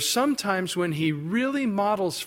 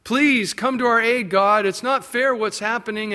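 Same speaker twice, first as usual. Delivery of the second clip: mock crying out; 4 semitones higher than usual. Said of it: "those same people cry out".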